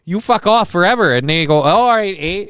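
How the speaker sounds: high, hammed-up northern Minnesotan voice; Minnesotan accent. Host acting out a wedding ceremony, mock Minnesotan accent. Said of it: "a little bit of Minnesotan".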